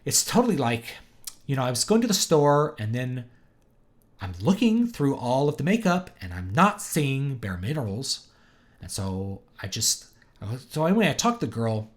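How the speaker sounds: ditzy California shopper, imitated with swooping pitch; California accent. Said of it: "this California accent".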